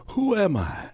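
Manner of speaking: high, expectant question; Muhammad Ali. Retold or imitated. Champ coaxing the old man, high eager voice. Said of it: "So Ali".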